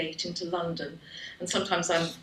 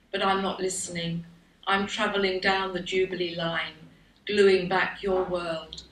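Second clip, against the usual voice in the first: poetry reading; 4 dB louder than usual. Acted. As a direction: read your poem out with deliberate pauses between lines. Reads own poem aloud.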